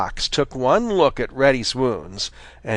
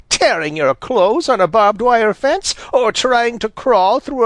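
put-on higher, cross old granny scolding; 9 semitones higher than usual. A narrator's reading. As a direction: scold like a vexed grandmother. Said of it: "said Granny Fox crossly".

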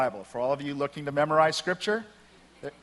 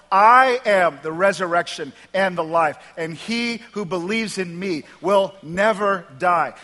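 emphatic declaration; 2 semitones higher, 6 dB louder than usual. Acted. Jesus answering Martha about the resurrection, emphatic declaration. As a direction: proclaim it with measured authority.

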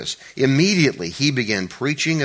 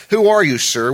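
high, loud startled cry of who are you; startled question; 5 semitones higher, 7 dB louder than usual. Acted. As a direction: blurt it out in shock. Preacher voicing Saul's startled question.

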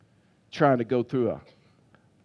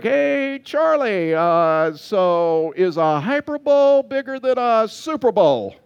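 higher, slow, laughing tease; mock innocent question through laughter; teasing pastors; 6 semitones higher, 4 dB louder, slower than usual. Pastors teasing Charlie in the foyer, laughing. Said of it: "they're like".

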